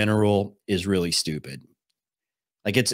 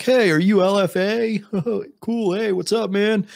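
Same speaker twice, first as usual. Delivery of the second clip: high, chirpy store-clerk greeting with a giggle; friendly stranger; 10 semitones higher than usual. Pretend. Fan greets streamer at the register, high eager voice. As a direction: play an eager, friendly fan much higher.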